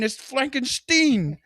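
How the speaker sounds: very high, slow, breaking into laughter; movie doctor voice, laughing. Retold or imitated. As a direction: drag the name out while cracking up. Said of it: "when he's like".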